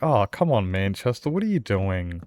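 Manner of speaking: rising disbelief at the football score; groaning at the team, pitch climbing to a high peak; exasperated fan scolding his own club; mock exasperation. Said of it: "and I was like".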